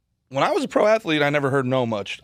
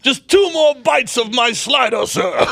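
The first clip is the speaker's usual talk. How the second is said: slow pompous transatlantic drawl; transatlantic accent; 6 semitones higher than usual. Retold or imitated. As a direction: savor each word like an old transatlantic toff. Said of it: "a transatlantic accent".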